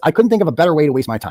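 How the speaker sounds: normal talking voice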